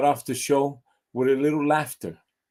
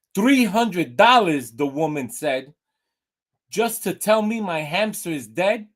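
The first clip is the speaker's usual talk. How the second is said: owner outraged at the bill, pitched up high; shocked outrage; 5 semitones higher than usual. Acted. Woman shocked by vet bill.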